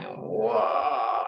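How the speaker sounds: low churning "whoa" noise; imitated churning gut. Retelling her solar plexus going in fear, low imitated whoa. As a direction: imitate a lurching stomach, drawn out and low. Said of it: "I could feel my solar plexus going".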